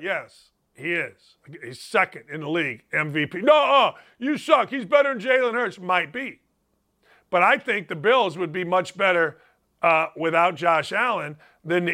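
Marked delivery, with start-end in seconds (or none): 3.4-5.8 hammed-up objection; mock heckler. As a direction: imitate a fan arguing back. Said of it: "But people say".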